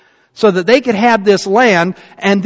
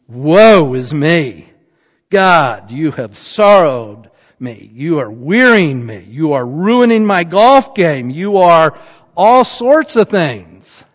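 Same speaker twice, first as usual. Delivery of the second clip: mock whiny lament; 4 dB louder, slower than usual. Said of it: "Baruch is saying".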